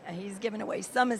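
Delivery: hoarse, worn-out voice. Real, not acted. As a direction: talk through a hoarse throat. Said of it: "Sorry, I'm losing my voice".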